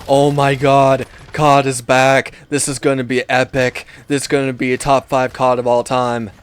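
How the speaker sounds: hammed-up excitement, starting loud; mock fan hype. Mocking fans before the next game releases, fake hype. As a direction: imitate an overexcited fan, punching the first words.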